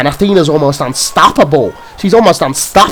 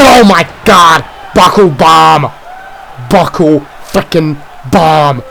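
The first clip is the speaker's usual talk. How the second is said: shocked shout; slower than usual. Real, not acted. Commentator reacting to the buckle bomb, shocked shout. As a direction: shout in disbelief at the slam.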